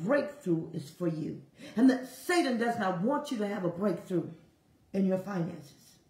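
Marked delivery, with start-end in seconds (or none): 0.0-1.4 quiet divine voice. Retold or imitated. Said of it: "I heard my Abba".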